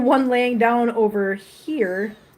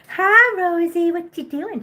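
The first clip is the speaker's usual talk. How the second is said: high cooing greeting; 7 semitones higher, slower than usual. Real, not acted. Owner spotting Rosie, squealing a high cooing hello. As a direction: squeal a hello then coo.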